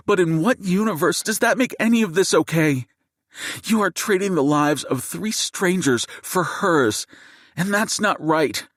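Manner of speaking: seething fury. Acted. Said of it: "Jade's seething voice".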